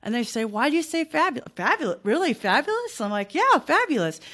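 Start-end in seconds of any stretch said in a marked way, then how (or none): 0.4-3.0 higher-pitched, mock disbelief; incredulous questioning. Callers doubting her fabulous answer, incredulous. 3.3-4.2 high, upbeat smiling reply. Shown as a demonstration. Confirming to doubting callers, cheerfully smiling. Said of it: "your pitch goes up".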